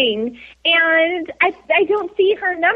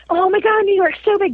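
higher-pitched wide-eyed tourist gushing; retold amazement, pitched up; gawking awe; 5 semitones higher than usual. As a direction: gush like an awestruck newcomer. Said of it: "because I'm still gawking".

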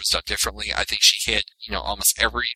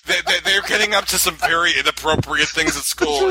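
imitating Percy; 4 semitones higher, 3 dB louder than usual. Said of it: "He's like".

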